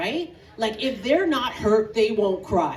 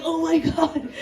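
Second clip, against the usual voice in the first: high, loud alarm; mock-frightened exclamation; scared; 7 semitones higher, 4 dB louder than usual. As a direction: blurt it out in fear. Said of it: "I was scared".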